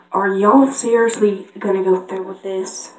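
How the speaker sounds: light Southern accent cartoon pony; Applejack. Applejack doubting the plan, light Southern accent. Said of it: "I'm Red Applejack".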